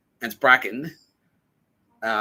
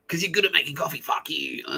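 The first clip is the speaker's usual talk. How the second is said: mock screaming abuse; 7 semitones higher than usual. Customer abusing the coffee maker, mock yell. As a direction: scream in someone's face, only imitated. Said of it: "get people, like, screaming in my face".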